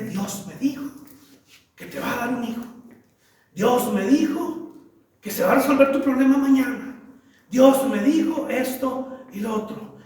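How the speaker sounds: hushed mock prophecy. Imitating a spiritual sister's prophecy.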